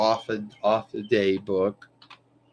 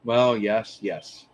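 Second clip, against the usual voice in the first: yawning; 2 semitones lower, slower than usual. Real, not acted. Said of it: "sorry for that yawn".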